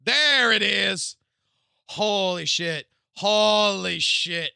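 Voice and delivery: loud, slow, drawn-out amazement; real awe. Real, not acted. Streamer finding the leaked snake character, loud awed excitement. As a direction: stretch it out in awe.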